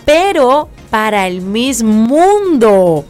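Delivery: lightly voiced boss breaking the news; boss announcing news. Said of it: "me dicen".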